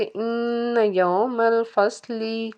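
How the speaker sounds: slow recital of इन यौमल फसली with the final ली dragged out; learner's mistake, फसली ending in a long ee; over-lengthened ending. Shown as a demonstration. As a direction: stretch the ली of फसली too long. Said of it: "थोड़ा सा लंबा करके पढ़ लेते हैं".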